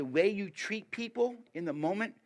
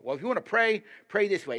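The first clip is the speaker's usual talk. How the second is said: high, loud mock preachy instruction; mocking gimmicky advice; 8 semitones higher, 10 dB louder than usual. Mimicking old church advice to young Christians, in a high, loud mocking tone. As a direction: parody the know-it-all church elder. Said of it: "people had all these little gimmicky things".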